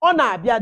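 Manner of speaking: Ọ na-abịa with a rising tune on ọ; Ọ na-abịa said loud and clear, rising on ọ; model phrase for class. Shown as a demonstration. Teacher models Ọ na-abịa for the class, loud and clear. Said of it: "detuo ya".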